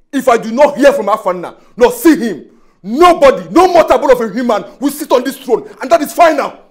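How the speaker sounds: high, loud and defiant, climbing to the end; heated royal ultimatum; defiant outburst. Acted. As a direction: lay down the law, pitch rising. Defiant vow over the throne.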